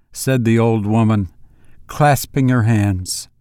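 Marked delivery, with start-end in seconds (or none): none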